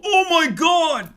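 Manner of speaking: high, loud mock gush; mocking gushing fan. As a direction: ham up a starry-eyed fan, slowing on oh my god. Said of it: "their dumb fucking perverted fans watch it and go".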